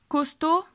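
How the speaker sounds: "Costaud" as "kos-TO", final D silent; pronunciation demo. Shown as a demonstration. Teacher modelling the word "Costaud" for learners. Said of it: "digo costaud".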